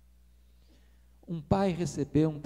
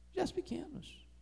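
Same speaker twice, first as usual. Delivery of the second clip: Gestos pequenos repeated hushed, much softer; soft echo; 9 semitones higher, 11 dB quieter than usual. Shown as a demonstration. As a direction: drop to a near-whisper on Gestos pequenos.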